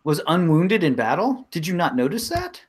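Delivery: lightly voiced wise woman, pitch rising as she presses the point; Cosetta insisting. Wise woman chiding two doubters, rising insistence. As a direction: press them, a touch exasperated.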